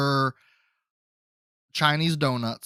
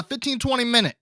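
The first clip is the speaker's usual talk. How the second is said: put-on light Chinese accent; 8 semitones higher, faster than usual. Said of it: "I can't do the accent".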